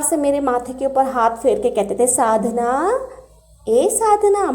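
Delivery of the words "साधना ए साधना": loving call. Retold or imitated. Krishna gently waking Sadhna with affection. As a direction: wake her tenderly. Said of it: "बड़े प्यार से".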